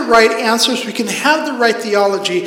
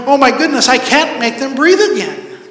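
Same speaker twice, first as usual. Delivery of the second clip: raised, mildly panicked voice; retold panic; 4 semitones higher, 3 dB louder than usual. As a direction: re-enact a father's rising alarm. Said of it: "finally panicking and going".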